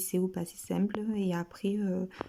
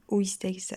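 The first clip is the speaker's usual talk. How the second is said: "oïsteis" with the first I made distinct; "oïsteis", first I standing clear of the O; stress on first I. Shown as a demonstration. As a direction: separate the "ï" in "oïsteis". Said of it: "accent sur le premier I".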